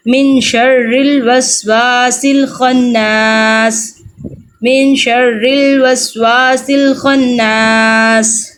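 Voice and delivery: very slow Quran recitation, drawn out. Shown as a demonstration. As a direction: recite it slowly and evenly. Teacher recites the verse. (بہت آہستہ تجوید کے ساتھ تلاوت)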